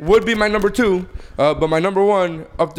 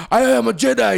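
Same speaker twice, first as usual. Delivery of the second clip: higher mock-heroic proclamation; mock Jedi declaration; 4 semitones higher than usual. Podcast host parodying a Jedi who turns, mock-heroic. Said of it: "He's like".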